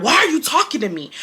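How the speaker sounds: retold irate challenge. Girl snapping back at Brian in class, irate. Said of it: "I get all irate and shit".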